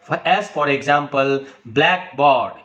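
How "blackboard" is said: blackboard with the force on BLACK; stress on first part. Shown as a demonstration. Teacher modelling a compound noun for learners, stress on first part. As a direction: hit black in blackboard, let board fall. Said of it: "first part of the word is spoken with force".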